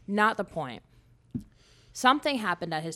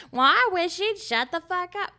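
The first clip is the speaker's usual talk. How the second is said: higher and louder, hammed-up complaint; mock grumble; 9 semitones higher, 7 dB louder than usual. Husband about his wife at dinner, mock whine. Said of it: "and you're gonna".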